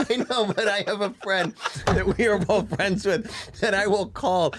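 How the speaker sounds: ordinary talk, nothing marked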